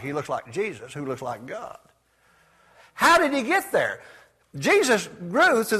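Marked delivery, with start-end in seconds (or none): 0.0-1.8 hushed awe. Acted. Awed hushed statement.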